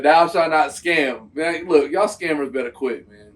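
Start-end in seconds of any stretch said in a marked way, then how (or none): 0.0-1.3 slow, lightly solemn repetition; lightly voiced mock decree. Host retelling the clip's line, slow and a bit solemn. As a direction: echo the commandment, barely acted. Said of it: "Uh, he said".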